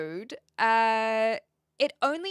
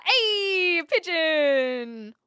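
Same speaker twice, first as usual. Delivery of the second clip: pigeon call; 6 semitones higher, 8 dB louder, much slower than usual. Pretend. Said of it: "the only bird noise I can make".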